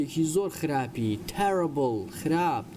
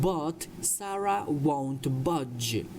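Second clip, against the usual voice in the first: slow, deliberate sentence for learners; slow model reading; much slower than usual. Shown as a demonstration. Teacher reads a story sentence to English learners, slowly. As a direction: draw each word out for students.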